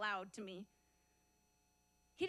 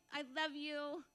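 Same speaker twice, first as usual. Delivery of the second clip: mock tender voice; 2 semitones higher than usual. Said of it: "It was no, like".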